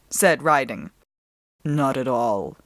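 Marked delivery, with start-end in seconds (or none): 1.6-2.6 low wolf growl. A narrator's reading. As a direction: brush off thanks, wolfishly. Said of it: "growled the wolf".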